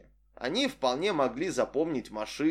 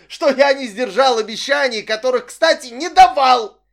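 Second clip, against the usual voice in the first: much louder, higher, blaming rant; furious shouting; 9 semitones higher, 11 dB louder than usual. A narrator's reading. Man blaming Vic for ruining his life, furious yelling. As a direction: hurl every accusation at her. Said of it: "закричал я".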